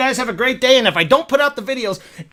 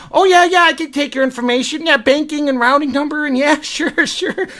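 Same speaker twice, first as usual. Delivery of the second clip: put-on eagerness; 6 semitones higher than usual. Puts on front for the customer.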